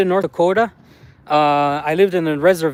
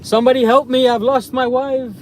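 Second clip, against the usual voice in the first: raised, higher-pitched playful plea; mock cry for help; 5 semitones higher than usual. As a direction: call out for help, half in jest. Mock plea for missing wife.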